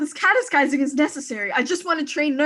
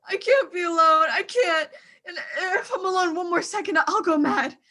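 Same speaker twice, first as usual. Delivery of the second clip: sobbing. Acted. Abandoned wife breaking down alone.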